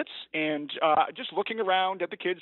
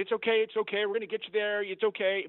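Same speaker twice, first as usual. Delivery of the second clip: higher-pitched, hurried-to-comfort reassurance; retold reassurance; 5 semitones higher than usual. Teacher to screaming girl in the van, retold reassurance. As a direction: retell coaxing a hurt child, pitch raised. Soothing a hurt screaming child.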